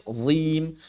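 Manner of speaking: "zim" with a heavy z and a light, held i; thin out the i of "zim" right after the thick z; thin long ya. Shown as a demonstration. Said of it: "kemudian langsung tipis".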